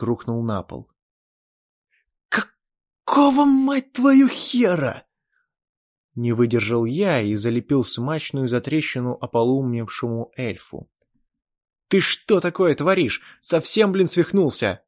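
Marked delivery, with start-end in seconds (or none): 2.3-5.0 much higher, loud, slow shout; shocked furious yell. Acted. Narrator shocked at killing. 11.9-14.8 loud, higher scolding yell; angry scolding. Acted. Narrator scolds the elf.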